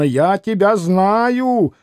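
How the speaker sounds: раздражённое восклицание; irritated exclaiming. Acted. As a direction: exclaim it, drawing the words out in vexation. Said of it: "восклицал он раздражённо".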